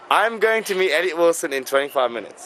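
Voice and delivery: careful British accent demo; English accent, clearly spoken. Shown as a demonstration. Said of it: "I didn't say the cabbie".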